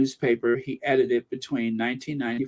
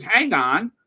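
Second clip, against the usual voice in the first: pompous "hang on"; 5 semitones higher, 3 dB louder than usual. Retold or imitated. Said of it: "in that very pompous voice".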